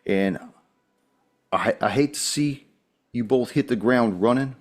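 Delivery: lightly voiced Southern police officer; a put-on Southern accent, politely official. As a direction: explain orders in a mild Southern accent. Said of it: "very different than the traditional accent".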